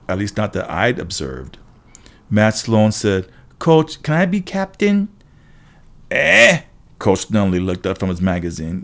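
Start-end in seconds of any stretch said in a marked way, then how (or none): 3.6-5.1 high-pitched student's plea to the coach; eager kid asking. Acted. 6.1-6.6 loud, high questioning grunt; distracted coach's grunt. Distracted coach caught off guard.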